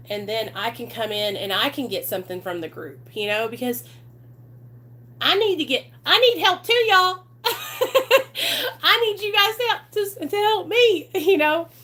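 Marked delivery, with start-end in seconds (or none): 5.2-11.7 high, loud plea breaking into laughter; laughing plea. Real, not acted. Streamer admits to the group that she needs help too, laughing plea. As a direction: plead loudly through your own laughter.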